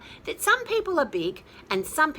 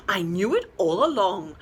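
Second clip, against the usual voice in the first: crowed; 4 semitones lower, 4 dB louder than usual. Acted. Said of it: "crowed the little rooster".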